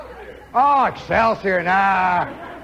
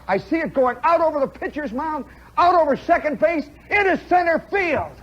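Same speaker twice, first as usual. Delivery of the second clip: rising thrill of a ball headed for center field; excited build; 6 semitones higher than usual. Retold or imitated. To listeners, reliving his single, building to a shout.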